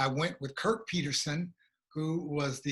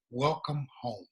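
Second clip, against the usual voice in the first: gentle welcome; 3 semitones lower than usual. Retold or imitated. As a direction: greet him gently, like family. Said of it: "looks me in my face and says".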